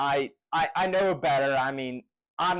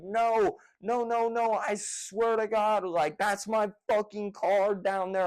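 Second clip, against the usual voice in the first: higher-pitched retold pleading, not shouted; desperate insistence; 5 semitones higher than usual. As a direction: re-enact begging to be believed.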